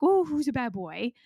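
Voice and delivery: a soft, smiling coo to a pet dog; loving, smiling, soft. Shown as a demonstration. Host coos at her dog Louie, loving and smiling. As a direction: tease the dog gently, all love and a smile. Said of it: "I'm saying that in a loving, smiling, soft voice".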